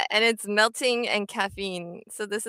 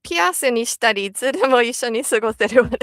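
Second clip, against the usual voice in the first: ad voice; 7 dB louder, faster than usual. Pretend. Mock ad pitch.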